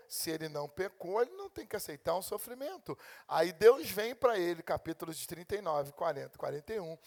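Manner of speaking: ordinary talk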